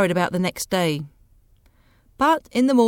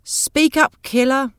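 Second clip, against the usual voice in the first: shouted heckle; 5 semitones higher, 5 dB louder, slower than usual. Acted. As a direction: call out loud and high from the back. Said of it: "somebody shouted".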